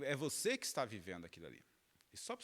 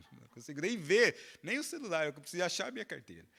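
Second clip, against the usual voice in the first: mock frantic, louder and higher outburst; retold desperation; 3 semitones higher, 6 dB louder than usual. Husband brushing off wife's Facebook message, retold desperation. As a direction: play up the panic over a lost wallet. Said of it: "o desespero que te dá".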